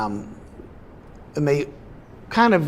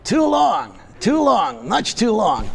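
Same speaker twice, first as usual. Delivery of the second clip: squeaky ventriloquist dummy; 6 semitones higher, slower than usual. Acted. Dummy Pops complaining.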